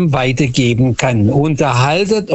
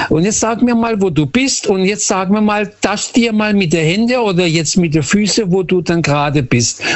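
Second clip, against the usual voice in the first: Oma beim Spiel; 5 semitones higher than usual. Retold or imitated.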